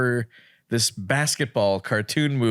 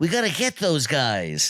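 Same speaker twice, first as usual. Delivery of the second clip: put-on goofy cartoon voice, higher; 3 semitones higher than usual. Describing a cartoon voice, imitating the Stimpy voice. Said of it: "It was like that kind of voice".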